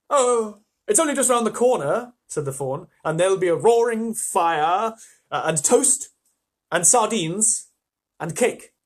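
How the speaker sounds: a hint of an eager, coaxing fawn. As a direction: lure her in with treats.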